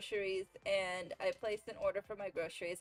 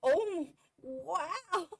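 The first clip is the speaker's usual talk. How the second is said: delighted; 6 semitones higher, 4 dB louder, much slower than usual. Retold or imitated. Retelling her delight at the cider.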